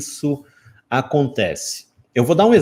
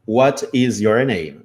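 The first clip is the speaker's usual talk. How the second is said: slow word by word; 3 semitones lower, much slower than usual. Shown as a demonstration. Slow word-by-word grammar breakdown.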